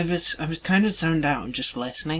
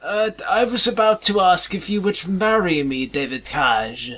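higher, lightly posh-voiced caller; John Cleese impression; 5 semitones higher than usual. Prank caller on a podcast, in a high mock John Cleese voice. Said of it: "it's me, John Cleese".

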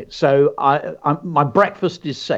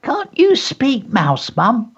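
lowered voice; 10 semitones higher, slower than usual. A narrator's reading. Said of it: "He lowered his voice".

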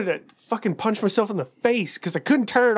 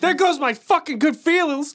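higher-pitched mock tantrum; child rage; 6 semitones higher than usual. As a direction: rant like an outraged kid. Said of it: "It was my child rage of".

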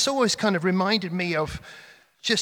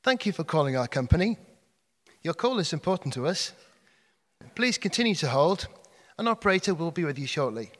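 phone menu voice. Retold or imitated. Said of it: "called the emergency plumber".

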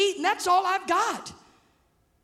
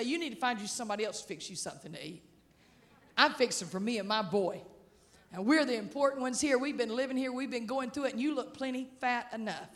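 low, soft grumble as the widow; imagined grumbling objection; 5 semitones lower, 7 dB quieter, faster than usual. Pretend. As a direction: play her reluctant protest under the voice.

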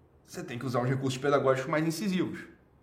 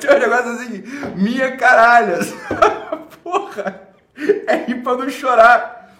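exasperated laughter; 8 semitones higher, 11 dB louder than usual. Real, not acted.

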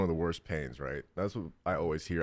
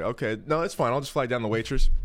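high mock voice; 5 semitones higher, 5 dB louder than usual. Mocking polite self.

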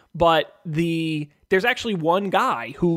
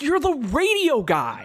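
radio guy voice; 10 semitones higher, slower than usual. Retold or imitated. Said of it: "Be like".

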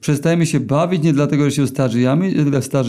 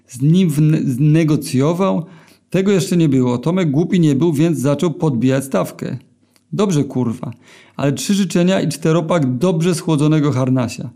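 ordinary delivery, nothing marked

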